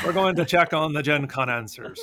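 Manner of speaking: bad Irish accent. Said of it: "That's a terrible Irish accent".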